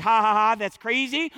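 loud mock ha-ha of disbelief; put-on incredulous laugh; imitated laughing. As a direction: laugh it off as crazy, acted. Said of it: "I don't know if he was laughing".

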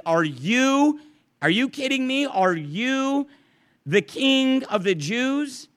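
incredulous, pitch climbing on each "you", slowing on "the king of the Jews"; emphatic disbelief. Retold or imitated. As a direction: press Jesus with disbelief, leaning on "you". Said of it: "and it's emphatic".

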